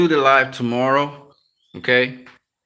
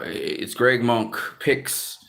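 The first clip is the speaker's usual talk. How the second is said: slow; 6 dB quieter, much slower than usual. Real, not acted. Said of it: "my other channel, which is".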